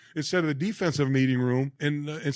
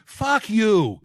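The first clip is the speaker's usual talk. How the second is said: higher, louder prankster's curse; retold outburst; 5 semitones higher, 5 dB louder than usual. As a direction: blurt it out as the prank's payoff. Prank caller drops the act, swears.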